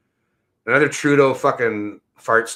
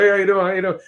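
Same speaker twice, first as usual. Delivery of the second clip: imitating barber; 10 semitones higher, 3 dB louder, faster than usual. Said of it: "he's like".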